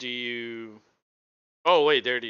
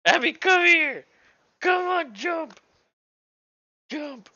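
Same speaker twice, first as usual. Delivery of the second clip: high coaxing voice to a pet; talking to a dog; 5 dB louder, slower than usual. Real, not acted. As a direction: coax the dog up, high and sweet. Calling a dog.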